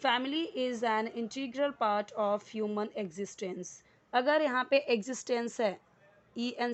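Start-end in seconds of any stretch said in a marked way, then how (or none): 0.1-3.7 very slow, word by word, each word laid out clearly; slow, careful classroom read-aloud; slow dictation reading. Shown as a demonstration. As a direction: read it out slowly for students to follow. Teacher rereads sentence for class.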